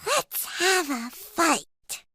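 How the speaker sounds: high and slow, a small cub daring his dad; little bear voice. Acted. Little Brown Bear challenging his strong dad, slow high cub voice. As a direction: stretch it out like a cheeky little challenge. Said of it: "but he says".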